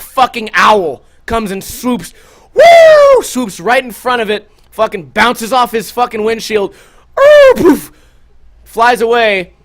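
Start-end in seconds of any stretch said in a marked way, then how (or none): 2.5-3.2 high loud mock swooping woo; owl swoop noise. Telling friends about the owl, a loud high swoop noise. 7.2-7.9 high loud mock ooh then poof; impact noise. Recalling the owl strike, a high loud ooh-poof.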